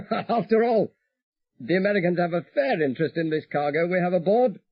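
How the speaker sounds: radio pilot relaxed and confident; voiced pilot Peter. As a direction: play Peter calmly reporting in.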